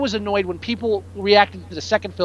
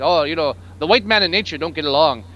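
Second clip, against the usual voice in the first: mock French accent; 3 semitones lower than usual. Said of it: "I don't even know what accent that was".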